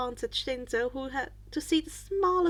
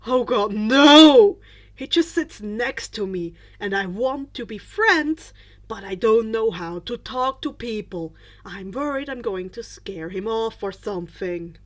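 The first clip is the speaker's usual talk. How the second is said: flustered denial; 3 semitones lower, 9 dB louder than usual. Acted.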